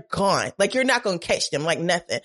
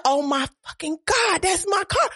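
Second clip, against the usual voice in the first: high, loud panicked cry on seeing the car stolen; shocked yell; 3 dB louder than usual. Retold or imitated. Retelling the moment he saw his car stolen, shocked yell. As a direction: shout it out in disbelief, louder and louder. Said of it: "I was shocked as fuck".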